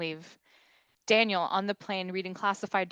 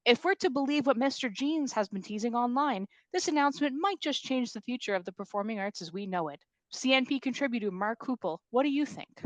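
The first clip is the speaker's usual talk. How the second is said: news anchor; 4 semitones higher than usual. Acted.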